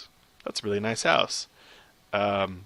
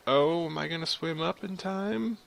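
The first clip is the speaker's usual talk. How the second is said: higher, rising worry; anxious rising pitch; 6 semitones higher, 5 dB quieter than usual. Real, not acted. Player swimming up against time, anxious and higher. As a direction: let the question climb as time runs out. Nervous swim up in water.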